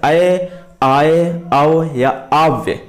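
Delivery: ऐ, आय, अव, आव्य drawn out slowly; sound demonstration. Shown as a demonstration. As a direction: say ऐ, आय, अव, आव्य one by one, each vowel held long. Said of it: "इस प्रकार की ध्वनियां निकलती हैं". (ऐ, आय, अव, आव्य को खींचकर, अलग-अलग बोलते हुए)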